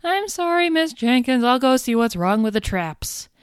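high squeaky little goblin voice. Acted. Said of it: "a little squeaky goblin voice".

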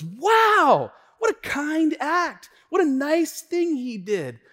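high, slow gushing amazement; exaggerated high-pitched admiration; admiring onlookers. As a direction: imitate a crowd marvelling, starting loud.

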